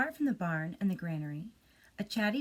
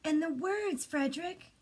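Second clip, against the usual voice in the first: much higher, pleading little mice; high mouse voice; 8 semitones higher than usual. Acted. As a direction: ask up high like hungry mice. Mice asking.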